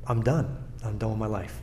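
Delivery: low, subdued confession; retold despair. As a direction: quietly imitate a man giving up. Retelling a suicidal man's confession.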